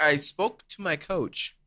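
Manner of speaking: slow, imitated Spanish accent; measured words in a Spanish accent. Resuming the teammate's invitation on request, Spanish accent. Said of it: "Please talk in that accent".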